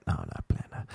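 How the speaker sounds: low, soft, unmoved no; deadpan refusal. Acted. DJ refusing the pestering friends, deadpan. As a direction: drop low and quiet to refuse.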